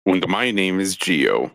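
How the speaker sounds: put-on a light, half-hearted German accent; slipping into a mock German accent on his own name. Host introducing himself to listeners, lightly mock German accent. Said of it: "I tried to sound German there".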